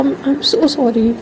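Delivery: mild tearful apology, slowing at the end. A narrator's reading. Flirt apologising to her crush after being hung up on, mildly tearful. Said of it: "रोने वाली आवाज़ हो गई थी उसकी".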